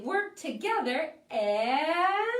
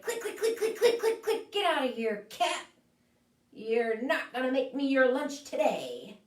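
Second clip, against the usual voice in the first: clicking crab voice. Acted. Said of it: "And the crab's like".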